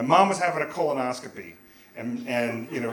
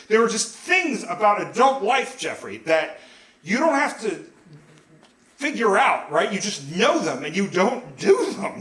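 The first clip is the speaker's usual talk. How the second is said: higher-pitched exasperated lecture; blowing up; 6 semitones higher than usual. Retold or imitated. Dad lecturing his teenage son, exasperated. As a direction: lecture your son as if it's obvious. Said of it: "my dad just blew me up".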